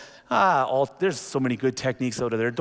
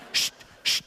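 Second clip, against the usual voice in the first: hushing. Retold or imitated. Hushing his son mid-prayer.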